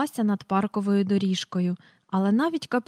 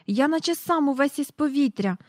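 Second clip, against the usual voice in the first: put-on excited boy's call; 6 semitones higher than usual. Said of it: "гукав Майкл".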